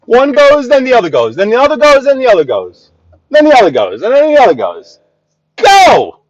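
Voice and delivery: fed up with the traffic, yell it out; exasperated yelling. Real, not acted. Exasperated at drivers taking turns.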